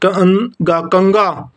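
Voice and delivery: कंगा drawn out very slowly; very slow dictation. Shown as a demonstration. Teacher dictating कंगा very slowly to students. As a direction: stretch कंगा as far as it goes. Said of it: "यानी कि अशुद्ध और शुद्ध".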